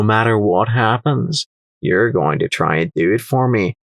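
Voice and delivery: put-on accented trader with a touch of dry menace; lightly airy, knowing and condescending; airy, dry merchant. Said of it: "His voice lowered again, becoming airy and dry".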